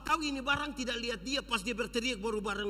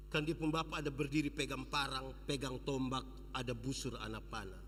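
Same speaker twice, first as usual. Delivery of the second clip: hushed telling; 8 semitones lower, 7 dB quieter than usual. A narrator's reading. Quiet description of armed father.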